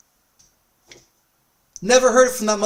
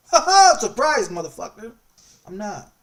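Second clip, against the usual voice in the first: mocking surprise; 3 semitones higher, 6 dB louder than usual. Confronting the cop, mocking.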